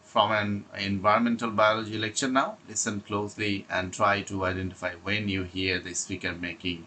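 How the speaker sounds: slow, deliberate reading of prepared notes; slow read-aloud. Acted. Teacher reading exam tips to students, slow and deliberate. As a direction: read each phrase out carefully, like a script. Reads instructions aloud slowly.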